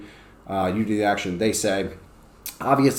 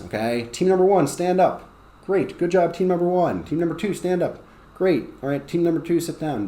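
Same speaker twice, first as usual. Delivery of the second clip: higher, brisk classroom commands; teacher drilling teams; 7 semitones higher than usual. Shown as a demonstration. Teacher tells teams to stand up and sit, high and brisk. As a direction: lead the teams through a lively drill.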